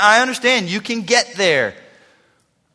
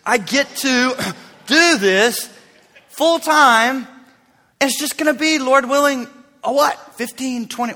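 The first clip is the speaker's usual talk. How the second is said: pep talk to himself; 5 semitones higher than usual. Retold or imitated. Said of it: "talking myself into this".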